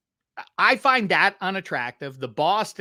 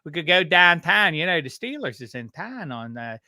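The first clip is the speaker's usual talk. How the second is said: Pittsburgh accent. Shown as a demonstration. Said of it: "Pittsburghers have yins".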